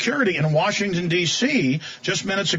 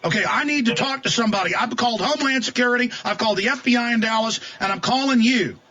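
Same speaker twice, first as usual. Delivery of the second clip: frustrated; 6 semitones higher than usual. Real, not acted. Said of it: "I'm a little frustrated here".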